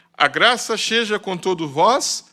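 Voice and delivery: slow blessing read with a rise on vós; solemn scripture reading. Acted. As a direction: lift vós at the end of the blessing. Closing verse read aloud.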